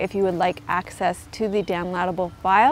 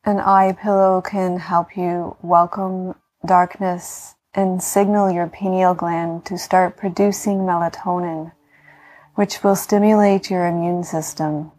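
guided meditation. Acted. Yoga teacher talking listeners into healing rest, calm meditation voice.

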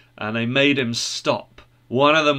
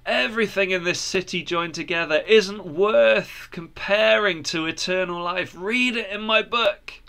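lightly voiced earnest believer; earnest enthusiasm building to a higher pitch; eager Christian; 5 semitones higher than usual. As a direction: persuade with mounting eagerness, pitch rising.

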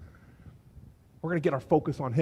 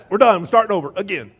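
loud, comic final verdict; mock fed-up shout; 8 dB louder, faster than usual. Preacher playing a fed-up Jesus, mock exasperated shout. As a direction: pretend to call the whole thing off.

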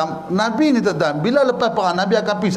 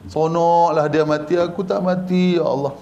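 lower, lightly acted wail of envy; mock weeping lament; 5 semitones lower than usual. Preacher acts a companion lamenting that he survived, mildly tearful.

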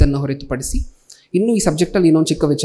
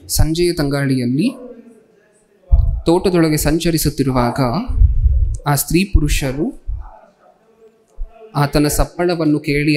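slow, measured reading aloud; scripture reading. A narrator's reading. Preacher reads the verse to the congregation, slow scripture reading. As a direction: read the verse out slowly, with pauses.

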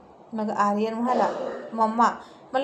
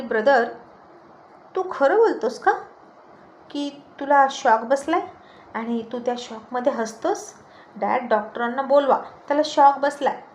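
alarmed sister; 4 dB louder than usual. Acted. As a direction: cry out that he's in shock. Sister alarmed by brother laughing. (उंच, मोठ्या आवाजात घाबरलेली बहीण)

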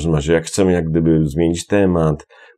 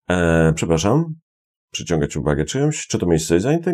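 ordinary talk, nothing marked

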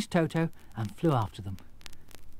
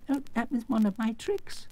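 Oz; 10 semitones higher than usual. Acted. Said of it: "answered Oz".

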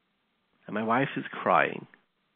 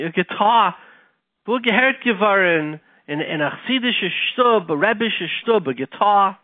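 louder, higher incredulous outburst; retold indignant disbelief; 6 semitones higher, 4 dB louder than usual. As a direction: act out a scandalized father's protest. Father's retold outrage at guitar request.

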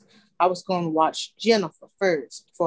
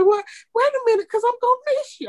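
put-on high, fast whiny kid voice; imitating crying child; 3 dB louder, faster than usual. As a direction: plead like a daughter who changed her mind. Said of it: "And she started crying".

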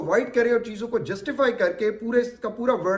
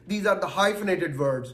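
slow emphasis; 3 semitones lower, much slower than usual. Shown as a demonstration. Teacher sums up the examples.

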